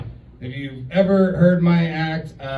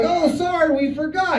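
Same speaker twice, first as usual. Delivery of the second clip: mock apology; 13 semitones higher than usual. Grandparents voiced in story.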